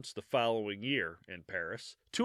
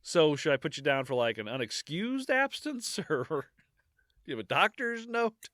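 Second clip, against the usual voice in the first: mock school clerk; 4 semitones higher than usual. School official questions the student.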